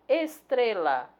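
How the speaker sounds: "Estrela" drawn out, weight on "tre"; stress on middle syllable. Shown as a demonstration. Teacher showing the tonic syllable, "Estrela" stressed on "tre". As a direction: stretch "Estrela" slowly, leaning on "tre". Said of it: "a sílaba tônica é tre".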